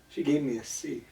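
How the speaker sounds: hushed reveal. Real, not acted. Telling a friend the final grade, hushed and quick. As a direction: drop to a near whisper for the reveal. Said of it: "Everybody coming close for this".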